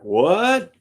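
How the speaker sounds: can't believe what he just heard; shocked what. Retold or imitated. Guitarist hearing the drummer quit, shocked what. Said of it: "I'm like".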